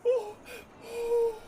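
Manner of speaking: high, loud, helpless laugh-crying through the words; cracking up so hard it turns to tears; laughing till crying. Real, not acted. Streamer overwhelmed by a joke dropped on him, laugh-crying. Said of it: "I'm crying".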